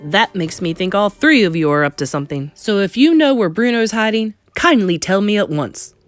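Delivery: indignant father demanding answers. Acted. Angry father confronts the grandmother.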